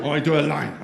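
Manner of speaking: light mock German accent; put-on German voice. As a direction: imitate a German finance person. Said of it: "they always have a German accent".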